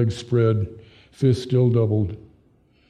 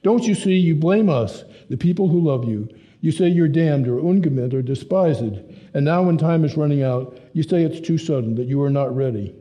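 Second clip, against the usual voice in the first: heated outburst; 4 semitones higher than usual. Acted. Hans yelling at father.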